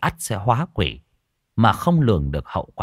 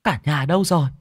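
calling out; 6 semitones higher than usual. Acted. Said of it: "gọi to".

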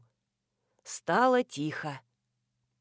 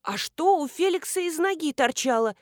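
shaky voice; 7 semitones higher than usual. A narrator's reading. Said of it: "дрожащим голосом".

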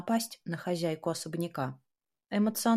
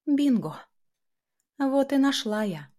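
higher, louder, triumphant exclamation; 6 semitones higher, 4 dB louder than usual. Acted. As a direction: crow over a discovery. Finds the hidden connection.

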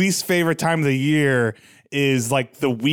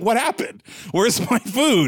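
confused dog voice; 7 semitones higher, slower than usual. Retold or imitated.

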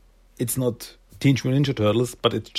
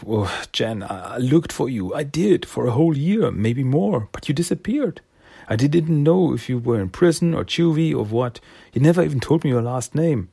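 higher, earnest pleading voice; pleading Silas; 4 semitones higher than usual. Acted. Silas explaining to Jenny he searched, higher pleading voice. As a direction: beg her to understand.

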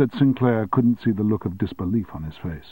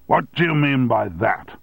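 loud, angry bellow; 4 semitones higher, 3 dB louder than usual. Acted. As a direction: bellow the question back. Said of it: "hollowed Armstrong".

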